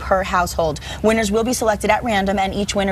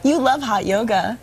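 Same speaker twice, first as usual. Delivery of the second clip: teasing, sarcastic jab at co-host. Real, not acted. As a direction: say it dripping with sarcasm. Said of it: "I'm being so sarcastic".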